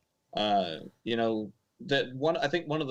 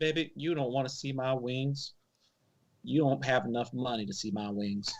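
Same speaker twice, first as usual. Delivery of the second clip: fake Southern accent. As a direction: play a sassy Southern cook. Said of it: "fake Southern accent".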